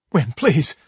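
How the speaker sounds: pleading father. Acted. Father pleads with knife-wielding son.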